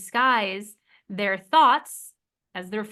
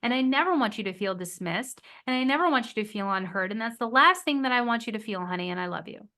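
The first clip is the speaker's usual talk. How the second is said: proper repair. Shown as a demonstration. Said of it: "which would be".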